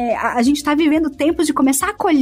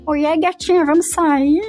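flirty phone voice; 3 semitones higher than usual. Pretend. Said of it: "imagina esse cara chavecando alguém pelo telefone".

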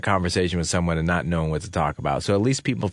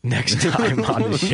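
slow words through a laugh; 7 semitones higher, slower than usual. Real, not acted. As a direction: laugh as you say it. Laughing sign-off.

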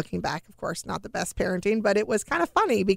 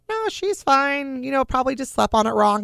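dismissive reassurance; 6 semitones higher than usual. Retold or imitated. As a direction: lightly imitate a doctor brushing off a worry. Doctor brushes off mother's worry.

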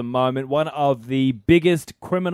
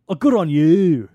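mock checkout lady; 3 semitones higher, 6 dB louder, slower than usual. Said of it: "and she said".

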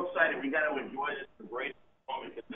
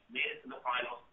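far from mic; faster than usual. Real, not acted. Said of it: "You sound far away all of a sudden".

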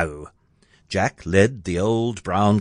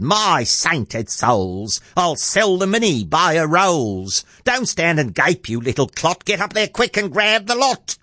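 mother's mock yell, climbing higher; excited yelling; 7 semitones higher than usual. A narrator's reading. Mother sending Jack up for the gold, excited yelling. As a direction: build to a high, urgent order. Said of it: "She yells out loud".

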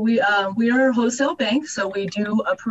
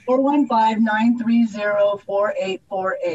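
phone number read out slower. Shown as a demonstration. Guest repeats a phone number for radio listeners, slower. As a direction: read the digits slowly and clearly. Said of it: "say it a little bit slower".

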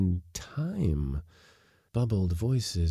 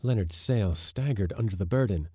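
ordinary delivery

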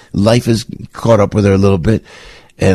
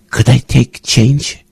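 put-on slow, slightly raised mild foreign accent on "Could I take change?"; imitating her accent; 3 semitones higher, slower than usual. Host imitating a churchgoer asking for change, mild accent. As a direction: gently imitate the lady's accent, drawn out. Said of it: "and with an accent".

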